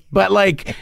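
normal talking voice

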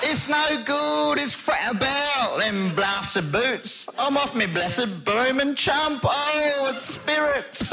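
slow shouted Black Country rant; Black Country accent. Acted. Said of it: "Mister Thomas Marvel's reaction".

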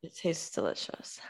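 soft words through a mouthful; chewing while talking. Real, not acted. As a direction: speak around a bite of bagel. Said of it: "So sorry if I'm chewing".

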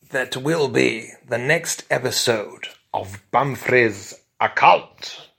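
hammed-up serial cliffhanger announcer; announcer sign-off. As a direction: announce the next episode with grand, spaced-out emphasis.

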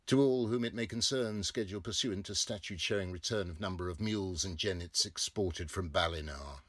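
fast official rattle; legal notice. A narrator's reading. Narrator reads gazette notice in official tone.

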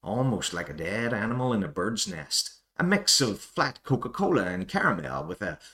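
hammed-up North American wine critic voice, sniffing and judging; bad North American accent. Irish host reading an American wine review aloud, mock North American accent. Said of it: "my attempt at a North American accent".

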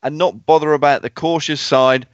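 mock Cockney patter; best Cockney accent. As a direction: lay on the Cockney slang. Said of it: "the stat's best Sydney Cockney accent".

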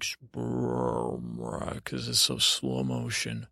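low, drawn-out slowed-down sound effect; slow-motion noise. Retold or imitated. Man reassuring teen about slow motion, drawn-out low slow-motion noise. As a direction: imitate slow motion with a long deep rumble. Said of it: "It'll just sound like".

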